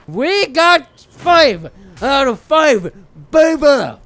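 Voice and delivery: slow, loud victory call; triumphant cheer. Real, not acted. Gamer celebrating quest complete, loud cheer. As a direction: crow the win out loud.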